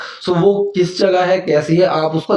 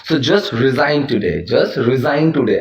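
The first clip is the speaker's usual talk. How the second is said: slow dictation; much slower than usual. Shown as a demonstration. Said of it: "आज ही इस्तीफा दे दो".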